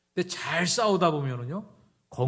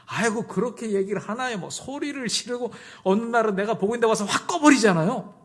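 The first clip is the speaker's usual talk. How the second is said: higher, louder indignant wife; exasperated complaint; 8 semitones higher, 5 dB louder than usual. Acted. Wife complaining that her husband yells, exasperated outburst. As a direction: complain about him, voice pitched up and rising in force.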